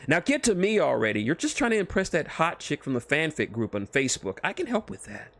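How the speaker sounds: push, then tempt; teasing Deadpool. Acted. Deadpool teasing the author about the Facebook girl, sly.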